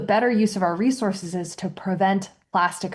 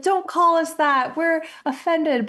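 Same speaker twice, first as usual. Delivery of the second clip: offended listeners; 9 semitones higher, slower than usual. Retold or imitated. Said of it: "I've had listeners be like".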